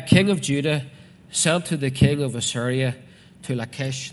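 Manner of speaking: loud, declaimed Bible reading; preacher reading out scripture. Acted. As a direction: proclaim the verse firmly to the congregation. Reads scripture aloud to congregation.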